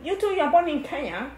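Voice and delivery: mock British accent, lightly done; a kid faking a British accent; put-on British accent. Sister teased for her mock British accent. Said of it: "Stop talking that way".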